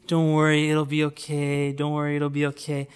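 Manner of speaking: a touch of rote soothing, softening off; mock reassurance. Everyone's stock reply to the crying wife, mildly imitated reassurance.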